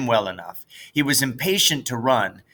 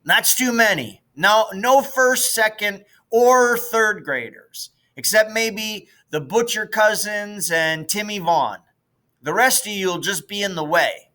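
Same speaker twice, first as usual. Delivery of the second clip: put-on bossy big kid; 9 semitones higher than usual. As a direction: lord it over the little ones. Fulcher ordering the little boys off.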